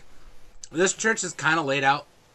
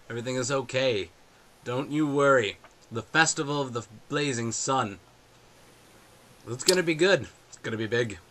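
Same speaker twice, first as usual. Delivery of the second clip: lightly voiced church leader; a hint of booming preacher. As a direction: reassure the flock, easing off from the boom. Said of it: "hear kind of a booming voice".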